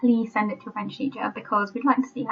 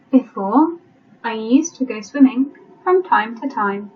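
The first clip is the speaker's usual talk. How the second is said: careful reading, leaving gaps for writing; teacher's deliberate dictation voice; slow dictation. Shown as a demonstration. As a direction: dictate phrase by phrase with pauses. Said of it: "I'll read it slowly".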